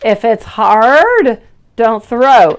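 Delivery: put-on slow, firm mom-to-toddler rule; patient mom laying down the rule; teaching a toddler. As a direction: spell out the rule slowly to a little kid. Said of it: "my youngest one is four years old with".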